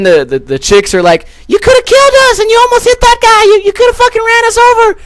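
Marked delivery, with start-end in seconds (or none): 1.5-5.0 falsetto mock female yelling; hammed-up high-pitched outraged girls; imitating yelling women. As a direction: screech it in a very high put-on voice. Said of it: "they just start yelling or whatever".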